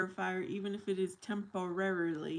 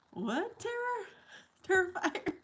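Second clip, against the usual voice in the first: surprised; 11 semitones higher than usual. Real, not acted. Puzzled by viewer's name.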